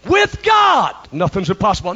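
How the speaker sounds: shouted proclamation. Real, not acted. Preacher shouts Gabriel's promise.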